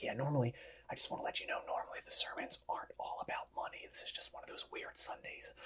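very soft, hushed, awkward whisper. Acting out leaning over to a church visitor during the sermon: imitating a whisper. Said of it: "leaning over and you're whispering".

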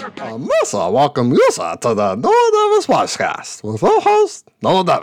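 high, swooping, slow, drawn-out voice. Speaker introduces the Noel Davis podcast; Jar Jar Binks impression. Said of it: "that's pretty much my Jar Jar impression".

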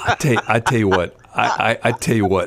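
laughing through stumbling, broken-up words. Trying to say something while laughing: laughing while talking. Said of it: "I'm laughing. I can't talk".

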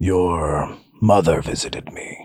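usual speaking voice

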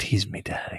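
soft, airy, breathy half-whispered voice. Asked to say the segment's catchphrase, answering in a breathy voice. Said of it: "I didn't expect it to be so breathy".

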